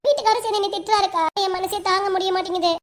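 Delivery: mildly weepy lament; acted crying. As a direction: pour out the hurt as if close to tears. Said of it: "எதுக்குடி அழுதுட்டு இருக்க".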